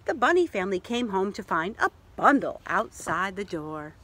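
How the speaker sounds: gentle read-aloud narration; reading a picture book to children; story narration. A narrator's reading. Reading to children, storyteller voice.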